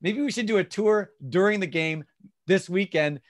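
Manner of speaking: customized, own words. Shown as a demonstration. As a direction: sell it like a friend hyping the game. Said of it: "Customization is".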